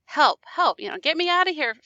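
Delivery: mock scream for help. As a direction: call for help, half-hearted and retold. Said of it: "Fortunato starts to scream".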